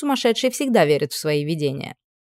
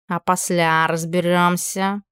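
grumbled; slower than usual. Acted. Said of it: "буркнул кот".

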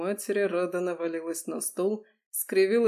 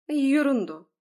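dismissive; 8 semitones higher, 6 dB louder than usual. Acted. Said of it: "отмахнулась женщина".

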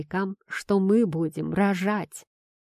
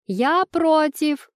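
much higher, louder, slow; shouted protest; 9 semitones higher, 5 dB louder, much slower than usual. Acted. Wife shouts her objection from the next room, high and loud. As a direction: yell it from another room. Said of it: "кричит из комнаты моя любимка".

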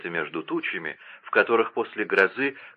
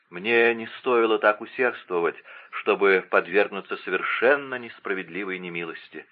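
plain reading voice

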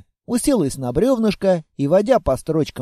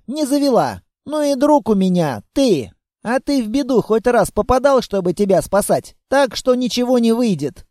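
put-on playful girl; 2 semitones higher than usual. The girl plans mischief with the monster, playful. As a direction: chatter like a cheeky kid.

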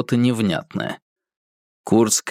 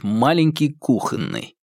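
ordinary talk

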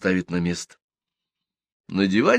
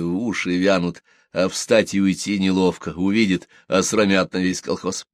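ordinary delivery

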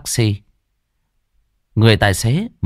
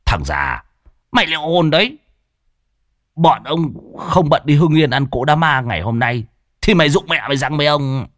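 swallowed anger, quick at the end; a touch of grudging threat; 6 semitones higher than usual. A narrator's reading. Hói warning old Đồng, restrained angry threat. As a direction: threaten through held-back anger. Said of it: "ứa gan".

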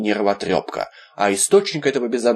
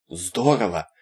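dreamy drawl; 2 semitones lower, 3 dB quieter, slower than usual. Acted. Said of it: "мечтательно протянул Виталик".

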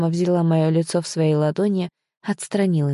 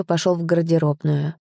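ordinary delivery, nothing marked

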